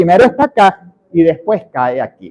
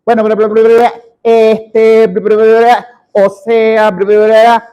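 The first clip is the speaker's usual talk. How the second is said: drawn-out level fillers broken by louder gibberish babble; filler-word babble; 3 semitones higher, 5 dB louder, slower than usual. Shown as a demonstration. Speech coach mimics speaker whose train of thought disconnected, stalling babble. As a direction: stall on each filler, then babble on one note. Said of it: "Se desconectó".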